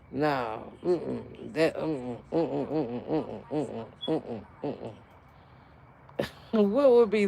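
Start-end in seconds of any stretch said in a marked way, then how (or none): 0.1-4.9 disapproving. Real, not acted. Disapproving head-shake sounds.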